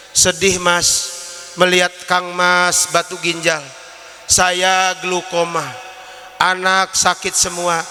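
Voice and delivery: slow, subdued imitation of a sad wife; retold sorrow. Wife telling husband why she keeps crying, understated sorrow. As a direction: list the woes slowly, with understated sorrow.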